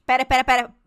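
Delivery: loud rapid "pera, pera, pera"; urgent interruption. Real, not acted. Friend stops the TV story in loud disbelief. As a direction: cut her off loudly in disbelief.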